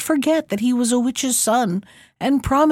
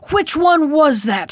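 higher, louder witch shout at night; 5 semitones higher, 4 dB louder than usual. A narrator's reading. Witch demands answer from Prunella, loud shout. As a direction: hurl the question through the dark. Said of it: "shouted the witch".

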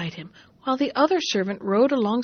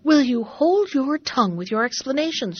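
mock shout; 3 semitones higher, 3 dB louder than usual. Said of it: "shouted the merchant".

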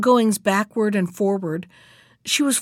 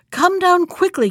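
high, raised-voice order; cried command; 9 semitones higher, 5 dB louder than usual. A narrator's reading. Bluebeard to his wife above, cried command. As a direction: call her down sharply in a raised pitch. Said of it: "cried Bluebeard".

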